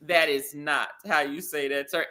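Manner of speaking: low, measured "no" with pauses; imitating a saleslady's cool correction; retold firm correction. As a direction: correct a customer quietly and deliberately. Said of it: "that Bloomingdale's lady said".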